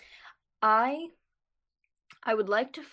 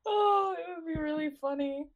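high laughing squeal; 10 semitones higher than usual. Real, not acted. Laughing at the idea.

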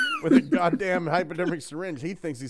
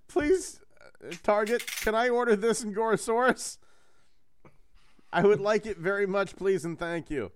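pleading; 6 semitones higher than usual. Pretend. Begging Target for a toy.

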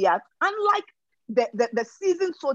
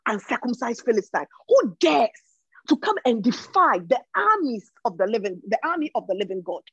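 righteous indignation. Retold or imitated. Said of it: "So it's like".

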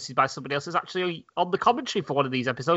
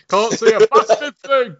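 grumbling voice; 6 semitones higher, 8 dB louder than usual. Retold or imitated. Mocking character griping.

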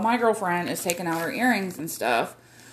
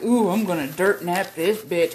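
mock tough girl; 3 dB louder than usual. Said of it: "acted like".

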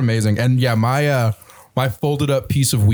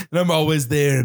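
laughing; 3 semitones higher than usual. Real, not acted. Laughing at a joke.

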